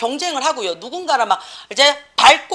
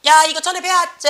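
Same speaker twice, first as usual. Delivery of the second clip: raised sing-out voice of a mocked teacher; mock schoolteacher; 5 semitones higher, 4 dB louder than usual. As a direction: imitate a teacher calling out to the class. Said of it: "그럼 학교 선생님들은 뭐라 카노?".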